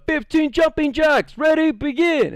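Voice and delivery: high, mock coach call; calling out commands. Student leader starting jumping jacks, high mock call. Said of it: "all that shouting".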